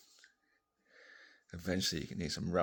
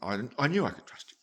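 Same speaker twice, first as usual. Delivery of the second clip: breathy whisper; 5 semitones higher, 6 dB louder than usual. Acted. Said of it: "And she goes".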